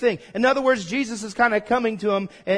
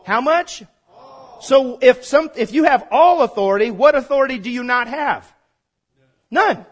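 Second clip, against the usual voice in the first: loud, rising call to the congregation; preaching at full force; 3 semitones higher, 6 dB louder than usual. Real, not acted. Preacher rallies the congregation with a loud call. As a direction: hammer each question home to the crowd.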